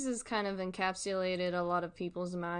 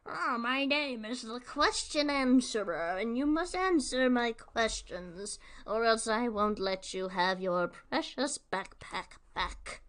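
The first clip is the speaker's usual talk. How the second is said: lightly voiced cartoon villain, a touch higher; kids' show villain; 3 semitones higher, 4 dB louder than usual. To viewers, imitating a Nick Junior villain, lightly hammed. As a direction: ham it up like a mild kiddie-show baddie. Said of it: "a villain from a Nick Junior show".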